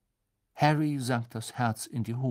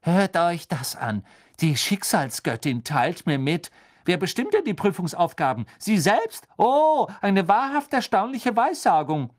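higher, louder mocking scorn; scoffing, much higher and louder; loud sarcasm; 7 semitones higher, 6 dB louder than usual. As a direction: sneer it out for all to hear. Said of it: "mühte sich nicht einmal, die Stimme zu dämpfen".

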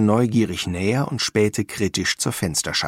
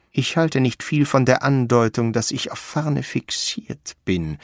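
lightly voiced offended artist, higher; Ferdinand Frost, miffed; 4 semitones higher than usual. Frost objecting.

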